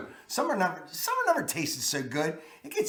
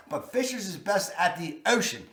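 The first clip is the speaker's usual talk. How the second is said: Baltimore accent; 4 dB quieter than usual. Real, not acted. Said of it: "Hear my accent?".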